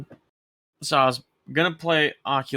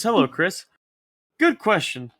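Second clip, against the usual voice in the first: reading an email; 2 semitones higher than usual. Shown as a demonstration. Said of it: "I'll read it right now".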